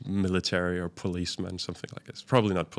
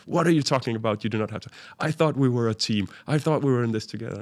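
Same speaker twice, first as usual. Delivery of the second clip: replaying his angry protest to the driver, half-hearted; mild retold outburst; 2 semitones higher, faster than usual. Angry traveller to the driver who would leave him, mild mock shouting. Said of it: "I start shouting about that".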